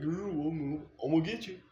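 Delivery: mock snake menace. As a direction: playfully voice the grumpy snake as a cartoon villain. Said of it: "he's like".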